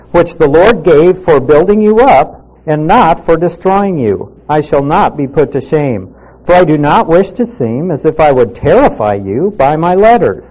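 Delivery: measured, formal Bible reading; steady public reading of an epistle; scripture reading. Acted. Reads verses eight and nine.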